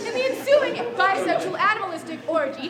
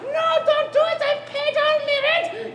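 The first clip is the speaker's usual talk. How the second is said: high, loud begging; high mock-pleading tenant; 9 semitones higher, 5 dB louder than usual. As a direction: plead with the landlord. Tenant begs not to be evicted.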